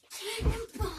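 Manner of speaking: high laughing yell; cannonball yell. Real, not acted. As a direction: yell it mid-laugh as you jump. Jumping, laughing.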